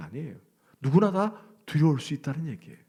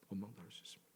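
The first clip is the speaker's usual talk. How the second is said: much softer, almost whispered repeat; soft echo; 5 semitones lower, 20 dB quieter, much faster than usual. Shown as a demonstration. Preacher repeating his point to the congregation in a hush. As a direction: let it fall away to a hush.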